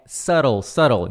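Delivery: "subtle" said SUH-rol, silent B; correct pronunciation of subtle. Shown as a demonstration. Teacher correcting the mistake for learners, "subtle" as SUH-rol. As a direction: drop the B in "subtle", tap the middle. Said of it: "Detalhe na pronúncia de subtle".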